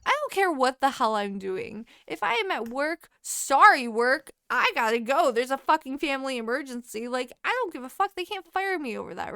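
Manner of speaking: loud, insistent venting; emphatic rant. Real, not acted. Telling a friend family emergencies beat work, emphatic rant. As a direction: push each point home, brooking no argument.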